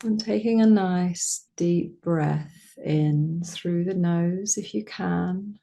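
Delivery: slow, calm breathing instruction; guided meditation. Acted.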